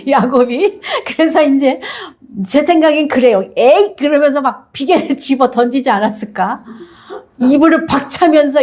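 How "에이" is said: mock disgusted grunt. Jacob's disgust.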